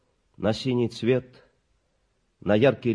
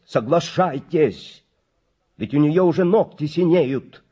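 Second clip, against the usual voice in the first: urgent plea; 5 semitones higher, 6 dB louder than usual. A narrator's reading. Doctor urges frantically.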